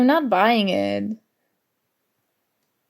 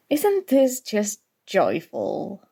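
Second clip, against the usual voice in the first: slow, dry sarcasm; sarcastic; slower than usual. Acted. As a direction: drip it with sarcasm, slowly. Sarcastic remark on cramped table.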